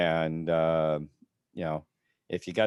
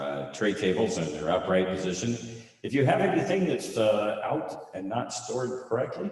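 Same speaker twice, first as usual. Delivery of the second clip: playful flight attendant reading the safety call. Pretend. Mock flight announcement before signing off.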